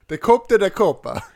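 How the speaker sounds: mock Italian accent. Reading out what the commentator said, mock Italian accent. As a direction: read it like an exaggerated Italian. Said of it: "it was so Italian".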